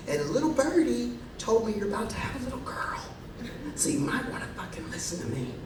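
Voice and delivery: a hushed aside, nearly voiceless; secretive whisper. Retold or imitated. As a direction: lean in and breathe it like a secret. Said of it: "And she says".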